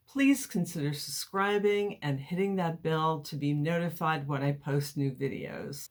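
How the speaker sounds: lisping, like cotton in the mouth; slight lisp. Real, not acted. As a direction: talk with a light lisp from a mouth appliance. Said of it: "I'm kinda lisping here".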